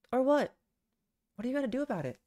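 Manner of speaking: loud and challenging, pitch up; defiant yell. Acted. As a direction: shout it back at him defiantly. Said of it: "I yelled at him again".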